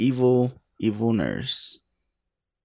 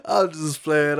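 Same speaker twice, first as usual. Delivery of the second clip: laughing; 3 semitones higher than usual. Real, not acted. Backing off the joke, still laughing.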